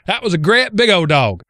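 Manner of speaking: redneck East Texas accent. Shown as a demonstration. Host demonstrating childhood redneckese, thick East Texas accent. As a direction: put on a broad East Texas redneck twang for "great big old dog". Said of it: "in redneckese is".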